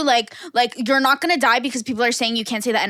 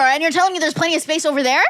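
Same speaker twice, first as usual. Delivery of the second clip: a slightly raised, scornful echo of the lady's line with "telling" leaned on; mocking disbelief; 3 semitones higher than usual. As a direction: toss the lady's words back at her, incredulous. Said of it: "go argue with the Grim Reaper".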